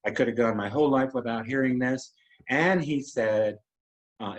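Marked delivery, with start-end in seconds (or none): 0.1-2.1 retold blunt fatherly statement. Dad speaking on stage about his child coming out, blunt. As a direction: say it plainly, mincing no words. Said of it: "He did not mince any words".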